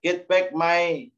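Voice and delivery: slow, mildly insistent demand; a hint of an annoyed seller; demanding the hat back. Shown as a demonstration. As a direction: ask for it back with mock firmness. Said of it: "misalnya ya gitu".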